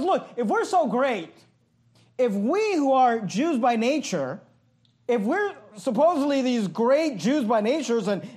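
mildly sarcastic, with weight on key words. Acted. Paul chides Peter for mistreating Gentiles, mildly sarcastic. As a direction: voice Paul's mock boast with understated sarcasm. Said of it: "he's saying this sarcastically".

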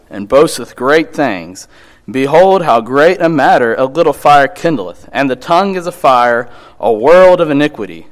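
loud, proclaiming Bible reading; scripture reading. Acted. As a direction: read the verses like a preacher. Reads scripture aloud.

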